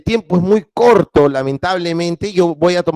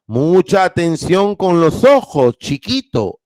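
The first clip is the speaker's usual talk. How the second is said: slow, lightly voiced old teacher; kindly old teacher, lightly voiced; old teacher's caution; slower than usual. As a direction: gently warn the boy, a hint of an elderly teacher. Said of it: "le dijo".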